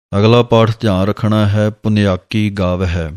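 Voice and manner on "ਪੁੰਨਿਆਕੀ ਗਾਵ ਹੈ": ਪੁੰਨਿਆਕੀ said as one joined word, not split. Shown as a demonstration. Teacher shows students that ਪੁੰਨਿਆਕੀ is said as one word. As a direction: keep ਪੁੰਨਿਆਕੀ together. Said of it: "ਵੱਖਰਾ ਵੱਖਰਾ ਨਹੀਂ ਕਰਨਾ ਹੈ".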